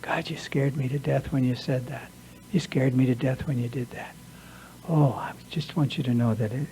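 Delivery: soft, gentle, hushed honesty; loving and kind. Shown as a demonstration. Telling a loved one calmly how the scare felt, softly and kindly. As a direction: confess the hurt tenderly, near a whisper. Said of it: "in a loving and kind way".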